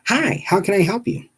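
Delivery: high-pitched receptionist impression; mock receptionist greeting. Receptionist voiced in retold call.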